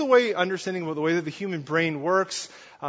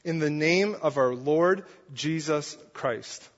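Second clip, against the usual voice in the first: slow, weighty "in the name of our Lord Jesus Christ"; authoritative; slower than usual. Shown as a demonstration. Paul doubling down on the church with weighty authority. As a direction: lay down the authority word by word. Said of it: "he doubles down with his authority".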